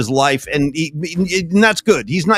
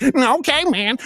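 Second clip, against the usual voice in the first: bummed out; 8 semitones higher, slower than usual. Retold or imitated. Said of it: "he got all bummed out".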